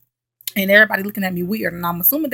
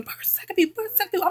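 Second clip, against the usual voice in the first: mock scream; 11 semitones higher, 4 dB quieter, much faster than usual. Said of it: "start screaming".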